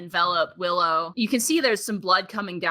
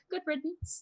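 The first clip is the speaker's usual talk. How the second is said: muttering under breath; 7 semitones higher, 12 dB quieter than usual. Acted. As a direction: mutter it so she barely hears. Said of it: "you hear her mutter under her, under her breath".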